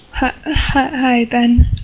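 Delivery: halting, lightly acted sob; mild sobbing. Sally greets Ben at funeral home, understated sobbing. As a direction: stammer the greeting with a touch of tears. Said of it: "she sobs".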